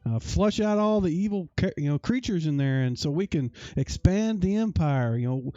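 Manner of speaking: a lightly voiced astonished innkeeper; surprised innkeeper. Innkeeper answers the adventurers.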